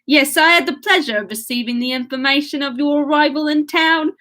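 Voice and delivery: hammed-up Cockney gentleman; exaggerated Cockney accent. Reader mocking her own Willoughby, in broad Cockney. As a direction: lean hard and playfully into Cockney. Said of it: "starting to get a Cockney accent".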